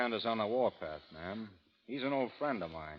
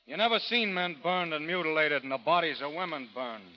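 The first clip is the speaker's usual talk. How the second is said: louder, higher, building grim urgency; rising intensity; 5 semitones higher, 4 dB louder than usual. Acted. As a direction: hammers the horrors home. Hickok describing massacres intensely.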